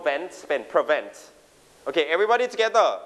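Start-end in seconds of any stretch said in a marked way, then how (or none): 0.1-1.1 "vent" picked out, then "prevent" as pre-VENT; stress on VENT. Shown as a demonstration. Teacher explaining which syllable to stress, emphasis on "vent" in "prevent". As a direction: put the weight on "vent" in "prevent". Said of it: "เราเน้นที่คำว่า".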